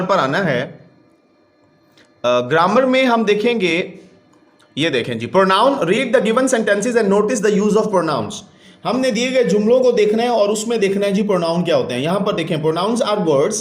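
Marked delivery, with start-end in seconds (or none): 5.8-8.3 slow reading aloud. Shown as a demonstration. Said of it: "teacher reads instruction aloud".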